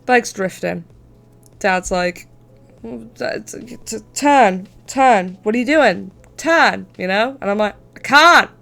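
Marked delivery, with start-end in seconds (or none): 2.8-6.9 stammering mock dad calling turn, turn; panicked dad. Dad yelling at drifting bike. 8.0-8.5 higher, louder cry of I can't; panicked kid. Retold or imitated.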